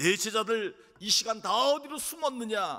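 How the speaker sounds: high, loud, mocking jeering taunt.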